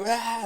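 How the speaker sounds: high, contained mock cry; freaked-out cry. Imitating the woman freaking out as she comes up, mock cry. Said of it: "like, freaking out".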